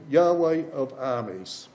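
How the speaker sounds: Yahweh slow and weighty; emphasis on Yahweh. Shown as a demonstration. Preacher echoing Tim's reading, slow emphasis. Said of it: "Tim read that beautifully".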